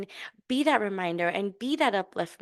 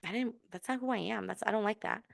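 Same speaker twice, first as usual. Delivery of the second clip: regretful self-talk; 10 dB quieter than usual. Retold or imitated. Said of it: "feeling icky and feeling kind of bad".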